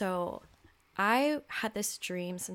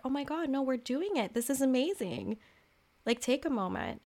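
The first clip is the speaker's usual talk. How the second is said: higher, thrilled and gushing; excited inner child; 6 semitones higher than usual. Retold or imitated. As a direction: burst out like a kid who just won. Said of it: "my inner child was like".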